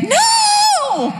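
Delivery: retold shocked shout; shocked cry. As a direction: yelp it in disbelief. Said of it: "I was like".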